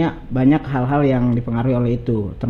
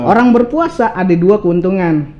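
pantun recital; 3 semitones higher than usual. Acted. Guest shares a Betawi pantun about fasting, pantun recital. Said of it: "Ada pantunnya begini".

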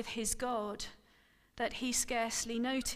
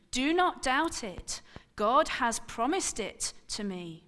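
firm, raised reassurance; 5 dB louder than usual. Acted. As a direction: brook no doubt. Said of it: "Abram said firmly".

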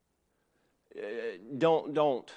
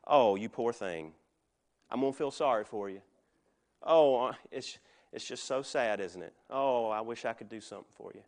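mock pity; 4 semitones lower than usual. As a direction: coo over them as if they're pitiful. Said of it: "Human pity will say".

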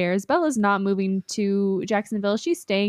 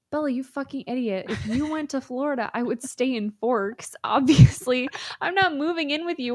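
lightly mocking exasperated retelling; hammed-up scolding, rising and getting louder; exasperated Edward; 4 semitones higher, 4 dB louder than usual. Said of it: "And he's like".

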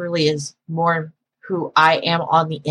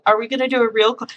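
quick, higher question; not yet calmed down; 4 semitones higher, faster than usual. Retold or imitated. Operator to prank caller before calming down, lightly worked up. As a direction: ask it fast and pitched up. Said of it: "I would calm down".

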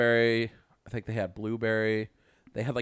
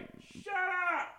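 mock yell; 6 dB quieter, much slower than usual. Yelling at noisy upstairs neighbors.

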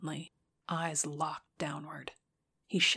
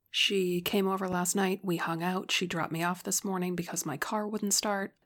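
unanimated. Acted. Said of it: "quickly and as unanimatedly as possible".

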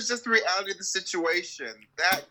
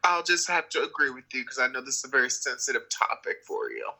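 put-on sympathetic agreement; mock sincerity; 4 semitones lower than usual. Co-host humours friend on a sensitive topic, mock-sincere. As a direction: agree with exaggerated tact, barely meaning it. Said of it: "You sound so sincere".

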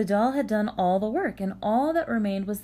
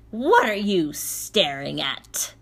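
barking; 5 dB louder, slower than usual. Acted. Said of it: "barked Baba Yaga".

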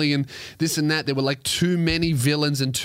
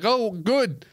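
mock grateful; 6 semitones higher than usual. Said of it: "No one's like".

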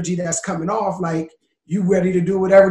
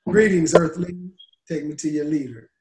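put-on old speech synthesizer. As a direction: deliver it like a clunky speech synth. Alien greeting joke.

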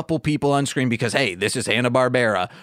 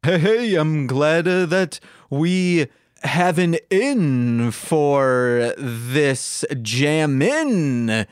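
a hint of Yogi Bear, slowing into a rhyme; lightly voiced cartoon bear, drawing out the rhyme; much slower than usual. Yogi to his friends at the venue, lightly voiced bear. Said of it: "And then Yogi says".

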